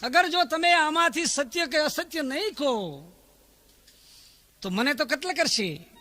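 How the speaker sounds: high, loud pleading cry fading toward the end; desperate shout. Retold or imitated. Doomed herald begging the court for his life, high loud cry. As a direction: beg the court for mercy at full voice. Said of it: "ચોબદારે એટલા માટે રાડ નાખી".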